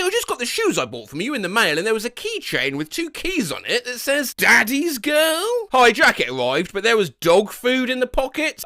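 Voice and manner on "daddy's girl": put-on slow, high, rising "Daddy's Girl"; drawn-out reading. Buyer reading the keychain text aloud, slow and rising. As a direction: stretch the words out in disbelief.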